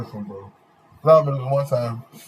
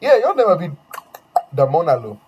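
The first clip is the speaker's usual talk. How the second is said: lightly pitched-up play-acting; mock solemn naming; 4 semitones higher, 4 dB louder than usual. Naming classmate Dominic in a made-up language, mock serious. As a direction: hand him a fake name with mock gravity. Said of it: "I was like".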